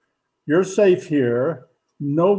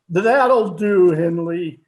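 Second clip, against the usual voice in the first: put-on louder, cutting the boy off; sharp reprimand; 3 semitones higher, 6 dB louder, slower than usual. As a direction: snap it shut like a strict father. Father cuts off jealous son.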